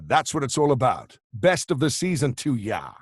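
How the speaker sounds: hearty rock-star message, punched out; a singer. Retold or imitated. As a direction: imitate a rocker's festive send-off. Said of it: "Merry Christmas from a singer".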